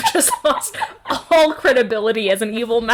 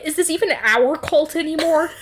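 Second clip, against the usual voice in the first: higher-pitched, melodramatic questioning; comic relationship-crisis voice; mock hurt spouse; 7 semitones higher than usual. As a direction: plead like a wronged partner, hammed up. Mock spouse pleading over cult.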